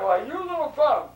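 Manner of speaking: high, loud, drawn-out mock indignation; storyteller voicing an outraged man, slow and loud; outraged scolding. Man cheated over a chicken, outraged scolding.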